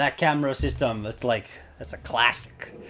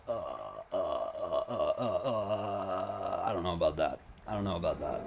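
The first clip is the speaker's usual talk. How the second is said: put-on Scottish accent; 6 semitones lower, 10 dB quieter than usual. Streamer puts on a Scottish accent for chat. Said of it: "Those accents were spot on".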